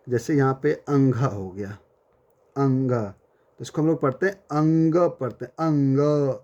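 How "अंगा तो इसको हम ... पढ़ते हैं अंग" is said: अंग said with a nasal ng and a short clipped end; pronunciation demo. Shown as a demonstration. Teacher showing students how to read the letter, nasal ng. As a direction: say अंग as "ang", nasal ng, no final vowel. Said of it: "ऐसे पढ़ेंगे".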